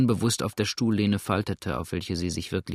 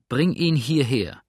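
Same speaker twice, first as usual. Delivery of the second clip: startled from thought; 4 semitones higher, 5 dB louder, slower than usual. A narrator's reading. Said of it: "wie aus tiefem Sinnen emporfuhr".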